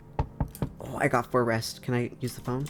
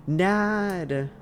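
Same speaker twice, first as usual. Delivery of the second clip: calling out; 8 semitones higher than usual. Real, not acted. Greeting a visitor by name.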